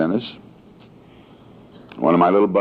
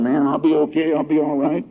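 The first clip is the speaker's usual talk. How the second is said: higher-pitched retold pep talk; upbeat self-reassurance; 9 semitones higher than usual. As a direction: pump yourself up, acted out. Acting out morning self pep talk.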